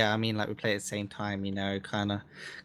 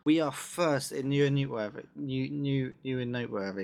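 voice cracking; 3 semitones higher than usual. Real, not acted. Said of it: "listen to him get tongue-tied".

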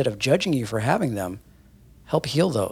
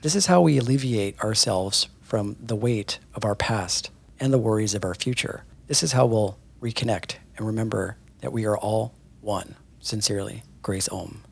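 measured, earnest reading of a spiritual post; reading a post aloud. Acted. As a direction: read it like a heartfelt message to followers. Reads Grace's post aloud.

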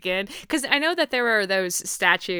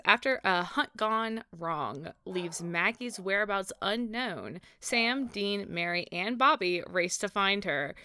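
measured, softer synopsis read; episode description read; 4 dB quieter than usual. Acted. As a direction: read it out like a TV blurb, slowing at the end.

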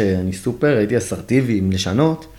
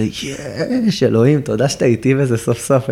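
higher, overjoyed little cheer; mock joyful relief; 4 semitones higher, slower than usual. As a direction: cheer like a prayer was answered.

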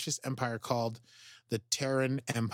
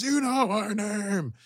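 high, slow, louder menacing; eerie possessed voice; 9 semitones higher, 5 dB louder, slower than usual. Retold or imitated. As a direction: say it as someone else inside him. Tyler's altered possessed voice.

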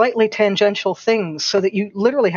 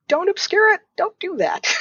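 higher, emphatic "Don't do that." with a rising push on "Don't"; 13 semitones higher than usual. Real, not acted. Writer scolds obscure writers, pitched high and emphatic. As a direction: repeat the advice with mock exasperation. Repeated advice, more emphatic.

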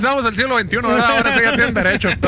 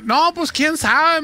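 higher, drawn-out shrugging reply; bank clerk; 6 semitones higher, much slower than usual. Retold or imitated. Bank employee answering a customer's complaint, slow mock cluelessness. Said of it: "Y me dice".

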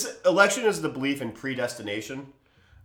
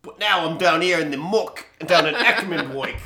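posh English voice; 4 semitones higher, slower than usual. Retold or imitated. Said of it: "the voice I used for D and D".

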